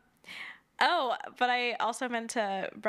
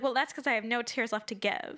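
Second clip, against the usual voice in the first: laughing quote. Retold or imitated. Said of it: "she's like".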